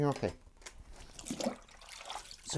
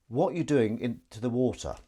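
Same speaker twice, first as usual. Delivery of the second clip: mock American "What are you doing to the water?" with a flat "water"; American accent. Reading a viewer's question in a mock American accent. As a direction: read a viewer's line in a put-on American voice. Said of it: "What am I doing to the water?".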